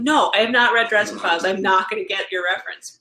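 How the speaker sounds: answering her friend's nagging question, mildly exasperated; exasperated retort. Retold or imitated. Mild mock exasperation at a friend's question. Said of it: "I'm like".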